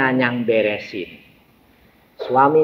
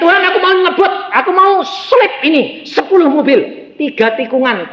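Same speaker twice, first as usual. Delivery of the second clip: high, loud, excited asking; excited retold prayer with a laugh; eager pleading prayer; 12 semitones higher, 4 dB louder than usual. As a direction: beg God with eager urgency. Retells his eager prayer to God.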